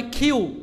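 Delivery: কিউ with a puff of air on k; corrected pronunciation. Shown as a demonstration. Teacher correcting the letter Q, corrected pronunciation. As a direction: say কিউ as aspirated "khiu". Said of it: "এটা হবে কিউ".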